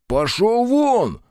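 high, slow yell of "пошёл вон"; drawn-out shout. Acted. Рух gives the slug a slow, high yell. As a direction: drive the beast off with a long cry.

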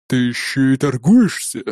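slow, scoffing question. A narrator's reading. Warrior mocks the bargaining peasant, slow scoff. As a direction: sneer at his bargaining, slowly. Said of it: "хмыкнул Нуки".

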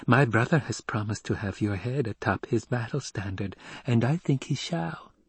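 lightly voiced child, measured; composed childlike declaration; self-possessed child.

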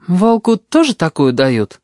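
a hint of a boy's voice, slow and probing; cautious child. A narrator's reading. Boy probing the tutor, slow light child's voice. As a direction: start from afar, slowly. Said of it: "начал кузнечик издалека".

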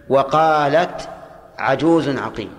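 very slow, drawn-out وقالت; slow quoted verse. Shown as a demonstration. Teacher quoting a verse to students, slow. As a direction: draw out وقالت slowly. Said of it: "طيب".

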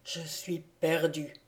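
low-key, muffled and mournful murmur; hushed, doom-laden admission; gloomy murmur. A narrator's reading. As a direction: murmur it softly, dull and lugubrious. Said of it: "Maximilien murmurait".

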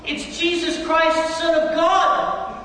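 slow, high, loud proclamation of Christ; old man shouting back the correction; retold correcting shout. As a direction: shout the true name back triumphantly. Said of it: "I screamed back at him".

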